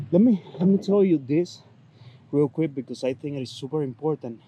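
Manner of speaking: breathless after exercise; out of breath. Real, not acted. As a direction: talk while short of breath. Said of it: "let me catch my breath".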